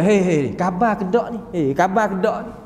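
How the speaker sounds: acted low-pitched nudge to rouse someone; checking on the sick. Visitor rousing a sick person, low checking call.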